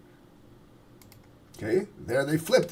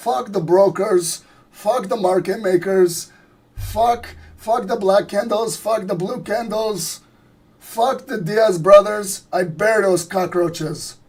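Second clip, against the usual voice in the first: louder, slow, higher gangster rant in a raspy voice; Tony Montana impression; 4 semitones higher, 4 dB louder, slower than usual. Streamer hams up Tony Montana for his chat, loud and slow. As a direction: spit out the curses like a mob boss holding court. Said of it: "you guys want me to do some Tony Montana impersonations".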